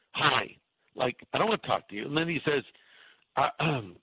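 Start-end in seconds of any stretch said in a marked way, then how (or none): 0.1-2.0 curt mock brush-off, rushed at the end; dismissive. Greg brushing off a stranger in the restroom, mock dismissive. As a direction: brush him off like you want no chat. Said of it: "in the most dismissive way I could".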